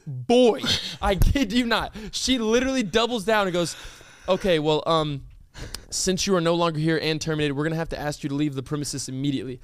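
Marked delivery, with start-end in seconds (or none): 4.3-9.6 low, hesitant then rattled-off official line; subdued, by-the-book imitation; official manager. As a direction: imitate a manager politely ordering someone out. Manager voiced ordering him out.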